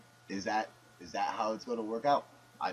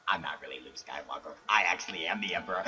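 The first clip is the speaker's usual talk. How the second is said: caller confession; 5 semitones lower, faster than usual. Acted. Caller confesses he's the Emperor.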